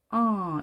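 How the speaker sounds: 어 as an open vowel between 오 and 아; demonstrated English short-o sound on 어. Shown as a demonstration. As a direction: hold 어 halfway from o to a. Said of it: "오와 아의 중간 소리".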